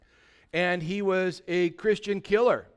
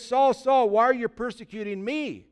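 raised, higher preacher's voice for God; divine summons; 5 semitones higher, 3 dB louder than usual. Retold or imitated. Preacher retells God confronting Saul, raised summons. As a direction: call out the name urgently, then question.

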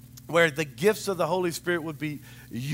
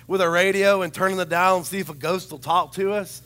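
offended; 3 semitones higher than usual. Retold or imitated. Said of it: "I was a little offended".

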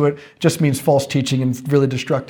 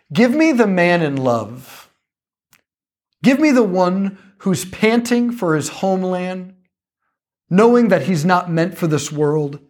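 reverent quote. Retold or imitated. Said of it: "he says this beautiful thing".

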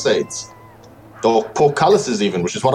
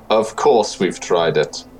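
slow and dry, without a trace of humour; flat deadpan put-down, said slowly; slow dry deadpan reply; 4 semitones lower, slower than usual. Acted. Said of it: "looks at you deadpan and says".

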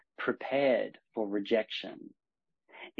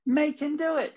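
much higher, louder stern riding-instructor command; old equestrian voice; 4 dB louder than usual. Retold or imitated. Inner voice of an old equestrian barking an order at the rider. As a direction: bark it like a strict old-school trainer. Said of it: "the old equestrian voice".

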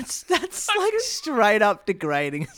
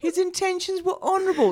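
laughing, higher sarcastic echo; mock the book's phrasing; sarcastic repeat; 11 semitones higher than usual. Real, not acted. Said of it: "the most dishonourable thing".

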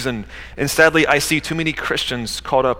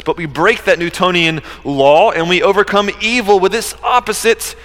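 raised, higher-pitched sermon delivery; emphatic preaching; 4 semitones higher, 3 dB louder than usual. Real, not acted. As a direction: drive the point home to the congregation. Preaches the point with raised force.

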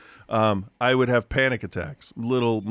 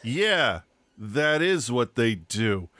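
flat deadpan; much slower than usual. Retold or imitated. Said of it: "in the flattest deadpan voice".

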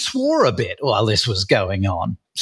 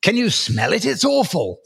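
high-pitched, hammed-up revulsion; mock disgust; 9 semitones higher than usual. British author mimics his reviewer recoiling from Britishness, in high mock disgust. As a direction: imitate someone appalled by a stink, voice pitched up. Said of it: "she's saying it like British is like".

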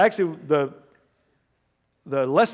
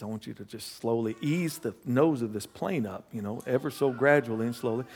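softer, scheming instructions; hushed instructions; 3 semitones lower, 5 dB quieter than usual. Retold or imitated. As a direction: quietly set up the trick. Plotting prank on sleeper.

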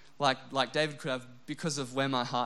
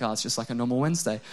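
fast, shrugging nonchalance; offhand locals; 3 semitones lower, faster than usual. Retold or imitated. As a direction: toss it off like it's nothing. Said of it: "everyone else in South Australia was like".

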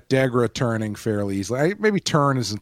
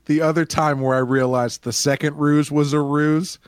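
ordinary talk, nothing marked

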